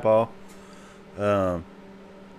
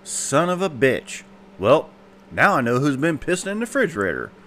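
put-on indignant old mama; 6 semitones higher than usual. Mama realising who pees in the fridge, higher and indignant. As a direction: drag out the curse, then the realisation. Mama's punchline.

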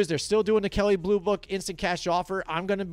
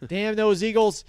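mock curse; 4 semitones higher, 4 dB louder than usual. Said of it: "get all into hatred".

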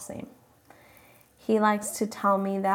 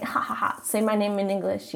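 fake polite laugh. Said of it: "to be nice and be like".

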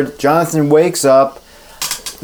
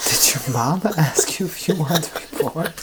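mocking echo; 9 dB quieter than usual. Mocking repeat of partner's line.

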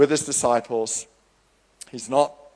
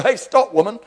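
Jesus' stern rebuke; 8 semitones higher than usual. Acted. Jesus voiced rebuking his mother.

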